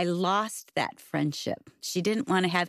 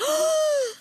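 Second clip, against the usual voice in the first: sharp high gasp of shock; high shocked intake of breath; 3 dB louder than usual. Retold or imitated. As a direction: gasp as if pages were ripped out. Friend rips pages from Bible.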